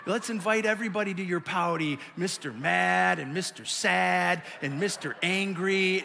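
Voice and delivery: drawn-out mock-pitying taunt; snarky dad. Dad mocking his pouting kid, snarky. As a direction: tease a sulking child with slow, snarky words. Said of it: "get super snarky with us".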